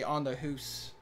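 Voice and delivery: "hoose" with a Canadian oo vowel; lightly imitated Canadian speech; Canadian accent. Shown as a demonstration. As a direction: demonstrate a stereotyped Canadian accent. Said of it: "speak like a Canadian".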